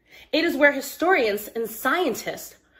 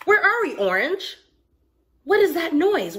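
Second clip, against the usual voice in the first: put-on child lost in the dark forest; startled child; 6 semitones higher than usual. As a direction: ask in a startled rush.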